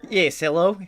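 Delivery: answering in a mock Kiwi accent; put-on Kiwi accent. Podcaster answers an interviewer, in a put-on Kiwi accent. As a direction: play along in a fake Kiwi voice. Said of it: "why do you use an accent".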